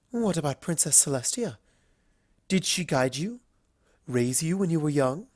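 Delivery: all polite charm, a little nervous; refined Rarity. Acted.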